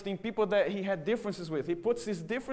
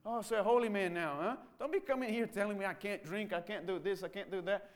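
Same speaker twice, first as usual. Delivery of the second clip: sneering father. Acted. Father sneers at son's new faith.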